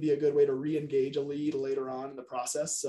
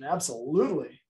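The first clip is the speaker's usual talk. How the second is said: certain yes. Shown as a demonstration. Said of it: "a commitment yes is fairly concise, but more certain".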